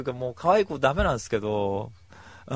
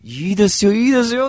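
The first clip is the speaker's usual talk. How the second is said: cheerful okay; 11 semitones higher, 12 dB louder than usual. Retold or imitated. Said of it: "っつって言って".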